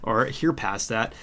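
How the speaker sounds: stuffy nose, nasal cold voice. Real, not acted. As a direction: talk through a blocked nose. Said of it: "apologize for my nasally voice".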